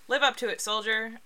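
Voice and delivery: pep up the soldier like a recruiting ad; rousing poster slogan. Shown as a demonstration. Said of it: "So number one, we have".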